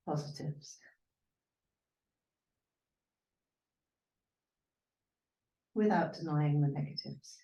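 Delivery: gentle yoga teacher voice with long pauses; guided meditation. Real, not acted. Yoga teacher wishing students peace, guided meditation.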